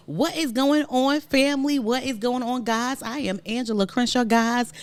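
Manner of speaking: hyped YouTuber intro; vlogger greeting. Acted.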